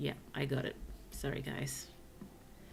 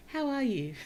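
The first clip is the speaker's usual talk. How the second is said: higher and louder, bursting with cheer; eager greeting; 9 semitones higher, 6 dB louder than usual. Real, not acted. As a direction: call it out happily. Cheerful greeting to chat viewer.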